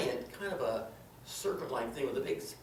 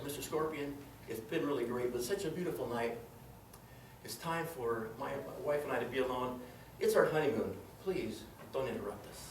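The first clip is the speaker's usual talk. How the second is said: soft polite request; 4 semitones lower, 6 dB quieter than usual. Acted. Asking scorpion for privacy.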